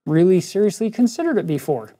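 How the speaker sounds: long drawn-out "uh", then halting answer; paused, stalling reply. Retold or imitated. Teacher caught off guard by a job question, hesitant stalling. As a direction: stall on the first sound, then feel your way through. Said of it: "I paused and said".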